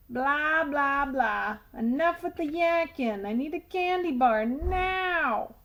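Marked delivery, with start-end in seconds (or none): 1.8-5.6 hint of a cranky tooth; bossy tooth voice. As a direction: nag like a spoiled mouth-boss. The tooth demands candy.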